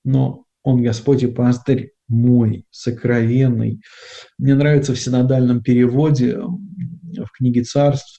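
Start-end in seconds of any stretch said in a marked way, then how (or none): 0.6-2.6 "мой" given the weight, unhurried; stress on МОЙ. Shown as a demonstration. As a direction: lean on the final word "мой". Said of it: "делаем акцент на «мой»".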